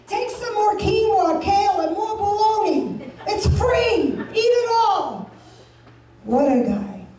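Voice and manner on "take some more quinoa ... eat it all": higher, eager voice pushing free samples; a hint of a proud cheapskate boyfriend; cheap boyfriend voice. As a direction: sell the Costco samples like a feast. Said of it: "He says".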